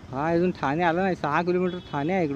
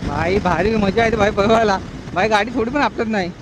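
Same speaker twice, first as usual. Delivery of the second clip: excited; 4 semitones higher, 6 dB louder than usual. Real, not acted. Thrilled riding bike at night.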